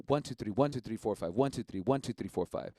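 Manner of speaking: counting three then five, the ones accented; counting the rhythm. Shown as a demonstration. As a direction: count the three five block, leaning on each one. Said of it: "That's the three five".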